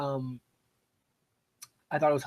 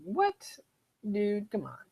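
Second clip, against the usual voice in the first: very high, indignant "what"; offended squeak; 8 semitones higher, much slower than usual. Retold or imitated. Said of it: "I'm like".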